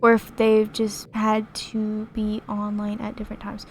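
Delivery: flat robotic monotone reading. Real, not acted. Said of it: "Sorry, I sound like a robot".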